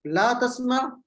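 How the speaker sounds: ला तस्मा closed on a vowelless ain; final jazm. Shown as a demonstration. Teacher showing students the negative command, final jazm. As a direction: end तस्मा with no final u sound. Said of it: "आखिर पे जज़म है".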